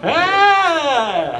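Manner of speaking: high, slow small talk; cheesy pickup line, trailing into a squeaky yeah; corny high-pitched flirt; awkward icebreaker. Retold or imitated.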